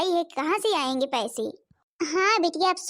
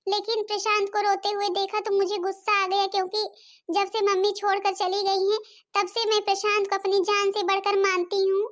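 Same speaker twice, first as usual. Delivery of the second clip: put-on lightly higher girl's voice, explaining herself; apologetic stepdaughter; 4 semitones higher than usual. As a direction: apologise earnestly to your stepmother. Plays Rita apologising to stepmother. (माफ़ी माँगती सौतेली बेटी)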